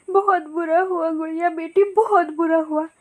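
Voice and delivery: crying parrot aunt. Acted. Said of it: "रोने लगती है".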